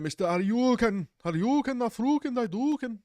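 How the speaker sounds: high mock chant; imitating fans. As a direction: chant it like a fan mocking. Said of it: "everyone does when they imitate me".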